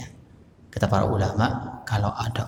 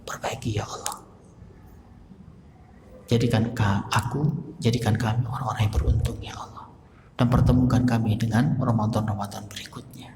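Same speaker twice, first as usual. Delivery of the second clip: tearful prayer. Shown as a demonstration. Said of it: "Tapi terus menangis".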